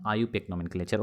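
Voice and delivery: आईयूपैक said as one word, "ayu-pack", before नॉमेनक्लेचर; correct pronunciation. Shown as a demonstration. Teacher repeats the right way for students, calm and clear. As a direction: model आईयूपैक नॉमेनक्लेचर as one flowing term. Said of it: "इसे हम लोग क्या बोलते हैं".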